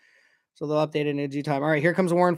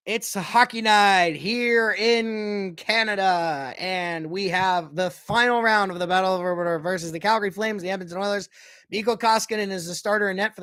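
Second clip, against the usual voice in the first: TV hockey announcer. Acted. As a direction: open the game like a TV hockey announcer. Opening the game like TV announcer.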